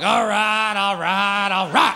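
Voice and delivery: dopey dog shrugging it off; a resigned, laid-back dog. Retold or imitated. Dog accepting its neutering, mock resigned. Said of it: "Dogs are more like".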